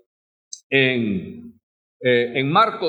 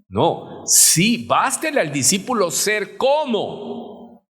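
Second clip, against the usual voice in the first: ordinary talk, nothing marked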